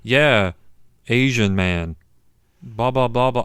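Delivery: mock delivery with no emotion behind the words; tame, emotionless. Host imitating the bosses' tame insults, emotionless. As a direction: recite the insult blandly, mimicking a tame actor. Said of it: "they're just not emphasizing any emotion".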